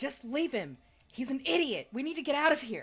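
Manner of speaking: shrill, very high, very loud yell. Voicing a fleeing assassin calling to the druid: yelling in character. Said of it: "just yell to the druid".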